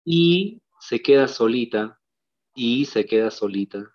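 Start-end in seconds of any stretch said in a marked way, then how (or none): 0.0-0.6 Y held long as a lone syllable; sílaba aislada. Shown as a demonstration. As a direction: separate Y from what follows. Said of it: "cómo tengo que silabear? Simplemente así". (Y alargada, como sílaba sola)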